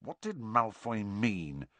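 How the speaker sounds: soft, confidential aside; muttered question. A narrator's reading. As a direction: mutter privately to a friend. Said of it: "Harry muttered to Ron".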